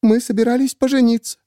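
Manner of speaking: high, tearful woman's voice; a distraught woman pleading; Miriam voiced. A narrator's reading. Miriam to the narrator, high and tearful.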